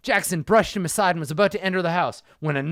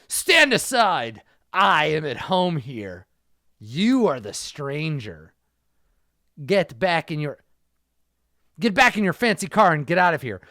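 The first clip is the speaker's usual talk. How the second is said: put-on a light Spanish accent, louder and clipped; thick Spanish accent; 4 dB louder than usual. Stranger ordering Jackson away in a Spanish accent. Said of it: "spat in a thick Spanish accent".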